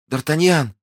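high-pitched plaintive calling; high, anguished woman's cry; desperate cry. Acted. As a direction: call for your love in distress. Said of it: "вскричала госпожа Бонасье".

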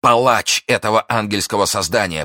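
high, loud, impassioned denunciation; outraged exclamation. A narrator's reading. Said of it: "повторял Фельтон".

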